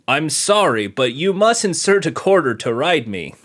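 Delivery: a hint of a creepy spider voice; lightly voiced creepy spider asking for a quarter. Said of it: "with a creepy voice".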